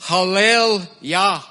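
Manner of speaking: "Hallel Yah" slowly, as two clear parts; compound word. Shown as a demonstration. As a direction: spell out "Hallel Yah" slowly, hah-LEL YAH. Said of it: "in the compound word".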